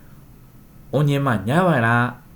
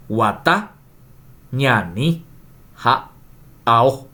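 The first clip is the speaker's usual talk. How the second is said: "guatá", "ñani", "ha", "ao" read one by one, each leaning on its last syllable; final stress; slower than usual. Shown as a demonstration. Teacher modelling Guarani words with final stress for the class. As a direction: spell out the stress slowly with a pause between words. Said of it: "Seguramente se darán cuenta dónde se carga la voz".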